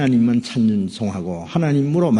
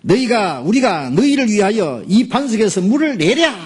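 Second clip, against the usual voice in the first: angry Moses; 9 semitones higher than usual. Acted. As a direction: hurl the question in rage. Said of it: "모세 화가 나가지고요".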